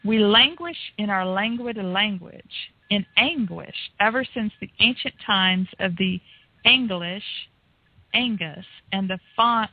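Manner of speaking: rhythmic wordplay recitation; Cullen's cadence. Retold or imitated. Host reading a guest's article like him, rhythmic recitation. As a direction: lean on the rhymes, phrase by phrase with pauses. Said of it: "trying to read it like you were".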